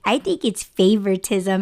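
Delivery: playful mock accusation, pitch jumping up early; teasing. Worker joking that coworker is the favorite, teasing. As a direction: tease her with a pretend grievance. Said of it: "like, teasing".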